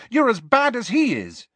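very high, accusing cry; angry shout. A narrator's reading. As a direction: turn on him, voice pitched right up. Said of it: "Lily shouted".

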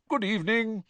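high-pitched, cheery hello; beaming greeting. A narrator's reading. Ghost greets the arriving pupils, beaming. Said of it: "beaming at them".

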